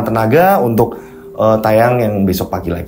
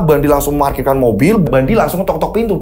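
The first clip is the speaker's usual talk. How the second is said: high-pitched, suspenseful storytelling; dramatic ghost-story narration; 9 semitones higher than usual. A narrator's reading. Storyteller recounts Bandi's night drive, dramatic ghost-story narration. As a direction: drive the horror tale along.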